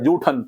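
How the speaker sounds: जूठन with an unaspirated j at the start; correct pronunciation. Shown as a demonstration. Teacher repeating the correction, जूठन with plain unaspirated j. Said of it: "जूठन होता है".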